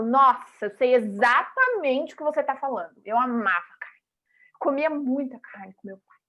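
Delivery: enthusiastically find common ground; lively, friendly agreement; eager agreement. Shown as a demonstration. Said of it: "eu falo".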